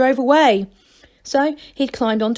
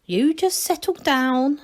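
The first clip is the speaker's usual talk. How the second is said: gentle soothing; 4 semitones higher, slower than usual. Acted. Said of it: "gently pushing him back".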